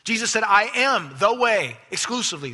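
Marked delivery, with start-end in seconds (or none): 0.4-1.8 "I am the way" drawn out slowly and firmly; slow, emphatic stress through "I am the way". Retold or imitated. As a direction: declare "I am the way" with weight, stretching each word. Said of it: "He said it very emphatically".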